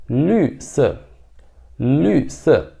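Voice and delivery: "lü" with rounded lips; Mandarin lü se. Shown as a demonstration. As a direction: model "lü se" with pursed lips. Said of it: "L U com esse trema em cima". ("lü" com biquinho)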